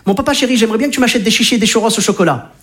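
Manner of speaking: a lightly voiced little boy pleading; sweet-talking kid. Son wheedling his dad for chichis, mildly childlike. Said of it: "il me le demande en allitération".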